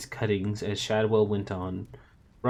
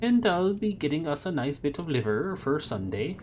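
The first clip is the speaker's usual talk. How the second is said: higher, chirpy landlady voice; Madame Tracy voice; 7 semitones higher than usual. A narrator's reading. Landlady chatting to Shadwell about Sunday, chirpy higher voice. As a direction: play the cheerful landlady.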